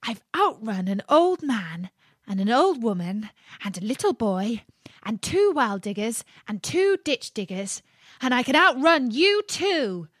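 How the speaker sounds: cocky little cookie voice; boastful gingerbread man. Acted. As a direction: crow about being uncatchable.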